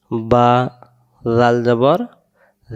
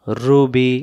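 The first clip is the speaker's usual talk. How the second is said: whisper; much slower than usual. Shown as a demonstration. Teacher whispers drill word.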